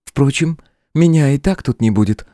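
высоко, с мягкой насмешкой; улыбнуться королю; с улыбкой. A narrator's reading. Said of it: "улыбнулась Лилиан". (демоница отвечает с улыбкой)

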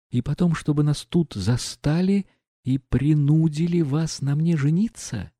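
put-on a proud girl stung into reproach; indignant young woman.

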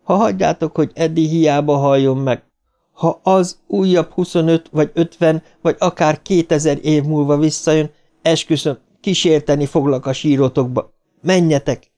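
high, driven insistence; insistent threat. A narrator's reading. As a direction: urge them on with a vow. Girl orders friends to go, threatening.

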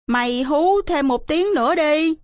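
coax, as if begging a hidden playmate; pleading. Acted. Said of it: "năn nỉ".

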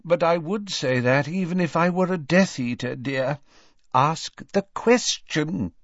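weary husband. A narrator's reading. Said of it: "Mister Weasley's weary voice".

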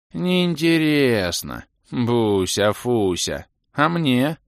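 high slow whining elf; whiny elf voice. Acted. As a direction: drawl it childishly. (капризный голос эльфа)

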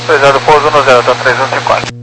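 crackly radio transmission; crackly military radio. Real, not acted. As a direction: talk through a crackly radio. Pilot readback over radio.

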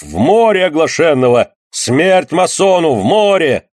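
a crowd baying for blood; mob shout. A narrator's reading. Mob calling for death.

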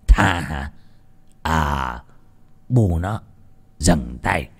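low, quiet, smug voice; sneering master. A narrator's reading. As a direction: savour his power, unhurried. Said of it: "cười rồi". (ông chủ nham hiểm, giọng trầm khinh khỉnh)

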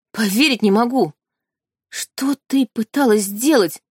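put-on astonished young man's voice, slowing down; surprised young man. Young man catching his sister, surprised. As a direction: caught off guard, he can't believe it. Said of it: "услышала удивлённый юношеский голос".

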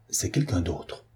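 murmure bien plus doux, soulagé; murmuré. Acted. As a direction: souffler les mots pour soi. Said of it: "murmura-t-il". (murmuré avec soulagement)

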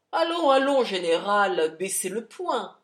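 loud, commanding call to stop; stern call. Acted. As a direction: break up the fight with a loud order. Charlie intervenes in the fight.

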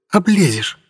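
high mocking retort; smirking. A narrator's reading. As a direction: tease him, high and smug. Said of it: "усмехнулась Орхи". (насмешливо)

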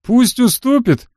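high, drawn-out soldier's jeer; egging-on private. A narrator's reading. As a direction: chime in with a high, slow taunt. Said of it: "поддержал рядовой".

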